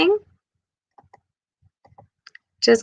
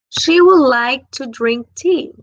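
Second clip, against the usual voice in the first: slow model sentence; 3 semitones higher, 4 dB louder, slower than usual. Shown as a demonstration. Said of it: "teacher models example sentence".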